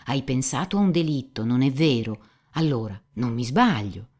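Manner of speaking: lightly voiced cynic, proved right; mildly triumphant, animated pressing; Rakitin trionfante. Dialogo letto, Rakitin trionfante. (cinico animato, un po' trionfante)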